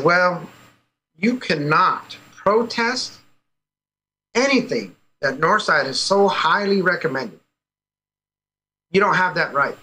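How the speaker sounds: slow, spaced-out officious refusal; imitated official refusal. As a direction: lay down the rule, word by word. Acts out official refusing protest.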